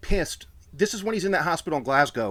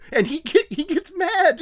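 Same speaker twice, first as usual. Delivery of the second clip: mock outrage; 4 dB louder than usual. Retelling his outburst, voice jumps.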